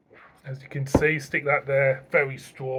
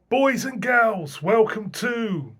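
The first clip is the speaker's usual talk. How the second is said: high, slow host's call to the viewers; sing-song slow welcome, pitched up; host greeting; 6 semitones higher, slower than usual. Acted. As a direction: stretch out the welcome like a showman.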